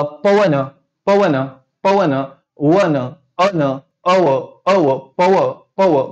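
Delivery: "पवन" repeated slowly, then peeled down to "अव"; demonstrated pronunciation. Shown as a demonstration. Teacher breaking down the word for students, deliberate "पवन". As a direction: isolate the "अव" sound inside "पवन", piece by piece. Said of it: "हे शब्दाचा उच्चार".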